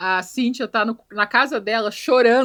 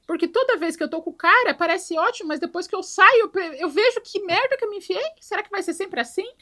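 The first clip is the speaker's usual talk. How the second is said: tipsy weepy lament; 8 semitones higher than usual. Retold or imitated. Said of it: "ela tá chorando".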